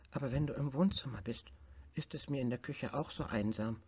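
a lonely small tiger complaining; little tiger voice. Acted. Tiger tells bear he feels lonely in kitchen.

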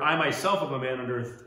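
firm weight on "I myself"; emphatic I myself. Shown as a demonstration. Preacher quoting the centurion, emphatic "I myself". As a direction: lean into "I myself" as the point. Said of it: "That's an emphatic thing there".

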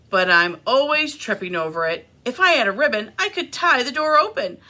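animated picture-book reading with lifted character lines; expressive storytime delivery; reading to children. A narrator's reading. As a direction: read a story aloud to little listeners. Reads second picture book.

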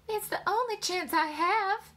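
high-pitched, defensive woman's voice; protesting wife. A narrator's reading. Wife defending her piano playing, high and aggrieved. Wife argues back in quarrel.

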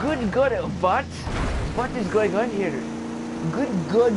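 high, loud flustered teacher voice; a frazzled teacher shrieking at the class; hammed-up high teacher voice; Miss Morelli impression. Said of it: "the Miss Morelli voice?".

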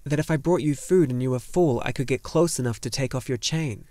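lightly voiced earnest lad; flustered boy hero. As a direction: explain yourself earnestly as a boy. Boy character in a story.

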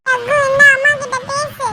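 put-on very high little-kid voice; high childish sing-out; child on phone. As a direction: pass on the message in a squeaky child's voice. Child hands phone over.

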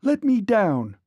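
high, falling cry of protest; girl's scream. A narrator's reading. Girl carried off by giant, screaming. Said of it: "screamed the girl".

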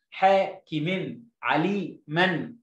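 slow, whole-word حاكم and عليما with full long vowels; joined reading. Shown as a demonstration. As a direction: model حاكم، عليما without chopping. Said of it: "ما بحبش التقطيع في الكلمة". (قراءة حاكم وعليما موصولة ببطء)

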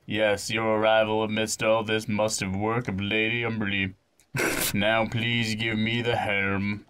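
lightly voiced, measured young chief; a hint of a solemn child leader; young chief in earnest. Young chief confiding in visitors, lightly acted and earnest. Reads game character's speech.

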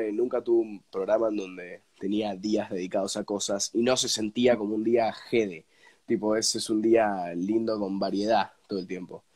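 stuffy sick voice, blocked nose. Real, not acted. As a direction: speak through a cold with a blocked nose. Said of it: "me voy a disculpar por mi tono".

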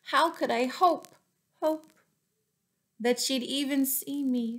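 high, wistful little mouse voice; despairing mouse. A narrator's reading. Lovesick mouse wonders if the hare will notice him, high and wistful. Mousy Brown's despairing thought.

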